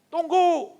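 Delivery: loud, high snapped wait; mock irritated shout. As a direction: bark it out, don't interrupt me. Praying person refuses interruption.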